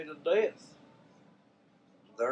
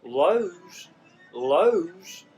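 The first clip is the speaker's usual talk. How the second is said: loud, fed-up naming of the store; exasperated shout; 4 semitones higher, 8 dB louder than usual. Real, not acted. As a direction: call it out, irritated. Angry rant about post office.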